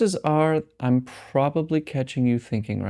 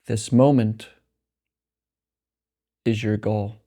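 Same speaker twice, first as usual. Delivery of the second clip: slow meditation voice with long pauses; guided meditation; 2 semitones lower than usual. Acted. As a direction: guide them slowly into rest, phrase by unhurried phrase. Leads a meditation.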